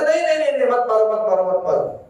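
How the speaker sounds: high-pitched quick "no, no" easing down; lightly acted mother's urgent plea; retold cry out. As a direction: imitate a mother crying out, without real shouting. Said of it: "वो तुरंत चिल्लाती है".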